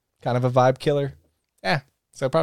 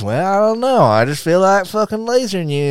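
robot voice; 7 semitones higher, 3 dB louder than usual. Retold or imitated. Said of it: "the robot says".

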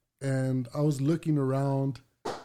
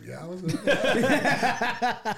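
quoted answer; 7 semitones higher, slower than usual. Retold or imitated. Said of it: "I said".

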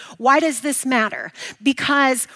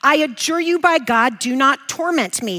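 mildly raised voice, quoting a plea; crying out loud; 2 semitones higher than usual. Acted. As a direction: read it as a restrained outcry. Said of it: "crying out in a loud voice".

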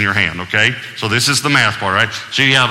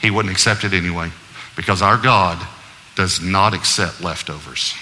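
lower, softer, measured firmness; nice but firm; 4 semitones lower, 4 dB quieter than usual. Real, not acted. Preacher corrects the congregation about leftovers, nicely but firmly. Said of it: "Can I say something nicely to you, but firmly?".

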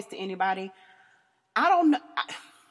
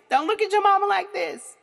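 higher and louder, horrified plea; louder shocked repeat; 11 semitones higher, 6 dB louder than usual. Retold or imitated. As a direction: push it up, more horrified. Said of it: "my daughter might ... pop like".

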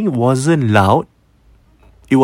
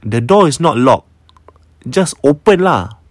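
annoyed call-out; 4 semitones higher, 3 dB louder than usual. Retold or imitated. Lazy sisters to the knocker, mildly annoyed call-out. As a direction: call out with a touch of impatience.

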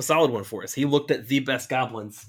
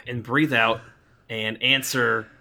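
announcer intro; slower than usual. Acted. Ritual show segment intro.

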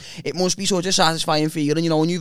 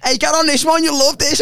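higher, louder imitation of a comic geeing up a bar crowd; mock crowd hype; 8 semitones higher, 4 dB louder than usual. Comic imitating himself hyping four uninterested drinkers, high and loud. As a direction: ham up the eager gig patter.

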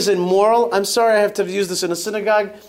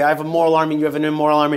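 haughty mockery; 5 semitones lower, much faster than usual. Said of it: "in a kind of haughty way".

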